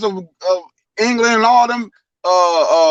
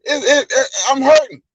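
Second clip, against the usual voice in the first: mild pleading cry, pitched up; mock screaming; 3 semitones higher than usual. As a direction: imitate a hurt man begging for help, half-hearted. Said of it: "He's screaming like".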